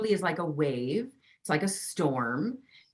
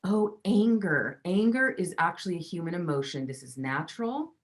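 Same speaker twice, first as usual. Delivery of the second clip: gentle acceptance. Shown as a demonstration. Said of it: "where you go".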